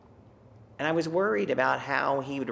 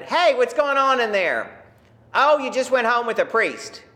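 teasing shout; 10 semitones higher, 9 dB louder than usual. Retold or imitated. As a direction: call out to tease him in the next room. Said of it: "I shouted".

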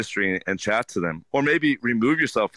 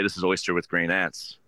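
flat recital. Shown as a demonstration. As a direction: reel off the dish like a script. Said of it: "don't just go and say".

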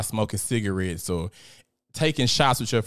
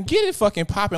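louder, higher push on get; loud urging; 8 semitones higher, 6 dB louder than usual. Real, not acted. To Justin in chat, loud urging command. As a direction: bark the order at the crowd.

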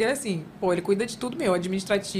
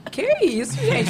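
rising "gente?", much higher; mock outrage; 9 semitones higher, much slower than usual. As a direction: play up the disbelief.

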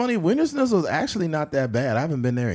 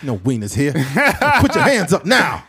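lightly voiced old Southern soldier, building louder; 3 semitones higher, 4 dB louder than usual. Soldier from the old South, rising mock threat. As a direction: bark orders like an old-timer. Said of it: "talk like a black man from that time".

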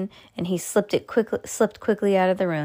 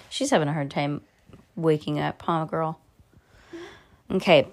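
ordinary delivery

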